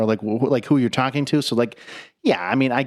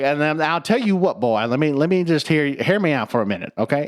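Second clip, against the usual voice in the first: rooster lecture; 2 semitones higher than usual. Retold or imitated. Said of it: "He's like".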